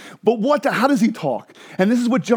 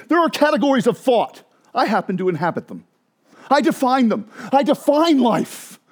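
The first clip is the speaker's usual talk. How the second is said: Jesus voiced boldly; 5 semitones higher than usual. Preacher voicing Jesus's claims.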